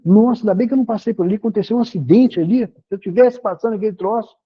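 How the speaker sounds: mild, fast-spoken amazement; acted startled relief. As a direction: rattle off a relieved realisation. Acted relief at avoiding an accident. (alívio espantado, falado depressa)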